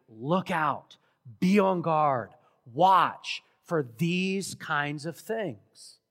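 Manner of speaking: loud, deliberate warning, slowing on "watch for these kinds of things"; very emphatic warning. Retold or imitated. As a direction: LOOK OUT, BE ON GUARD, WATCH as separate weighty beats. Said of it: "he repeats very emphatically".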